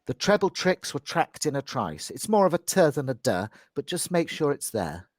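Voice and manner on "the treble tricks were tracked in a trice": "tracked" ending with a light audible d; clear d on tracked. Shown as a demonstration. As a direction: sound the final consonant of "tracked". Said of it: "make sure we hear a bit of the D on the end of tracked".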